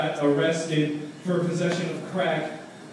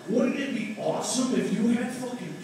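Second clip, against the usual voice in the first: higher, excited dude voice; Seth Rogen stoner pitch; 7 semitones higher than usual. Retold or imitated. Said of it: "The latest one".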